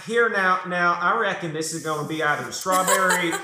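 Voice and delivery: put-on over-the-top Southern accent. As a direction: play the Southern farmer pondering, thick Southern accent. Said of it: "taking it a little too far with that southern accent there".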